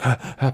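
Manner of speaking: mock panicky gasping; quick audible gasps of fright; panicked gasps. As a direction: act out breathless panic.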